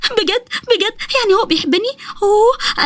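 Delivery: put-on high, delighted girlish disbelief; enthusiastic. Nesma hears that he loves her, excited. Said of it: "فضلت نسمة تتكلم كتير وبحماس".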